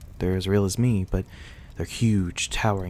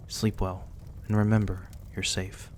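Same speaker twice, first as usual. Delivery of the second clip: softer, gentle reassurance to rest; soft goodnight; 5 dB quieter than usual. Acted. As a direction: soothe them toward sleep. Saying goodnight to the injured guest.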